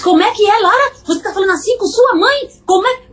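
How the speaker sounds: high, indignant scolding mother; mock outrage at a child's back talk, pitched high; angry mother. Mother scolds daughter for talking to her that way, indignant. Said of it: "Se eu falasse".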